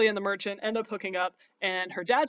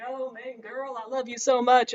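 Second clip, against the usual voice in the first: mock lovesick cry; 4 semitones higher, 4 dB louder, slower than usual. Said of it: "he's just like".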